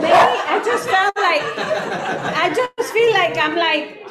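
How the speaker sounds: laughing. Real, not acted. Laughing while recounting.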